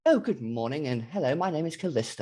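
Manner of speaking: stereotyped genteel British greeting voice; posh British accent. Acted. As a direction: exaggerate a polite, upper-class English accent. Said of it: "there's two British accents to American people".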